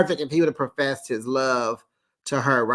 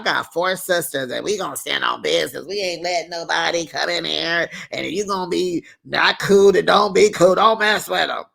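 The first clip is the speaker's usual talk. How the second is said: tough warning; 3 semitones higher, 3 dB louder than usual. Retold or imitated. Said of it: "in her confessional".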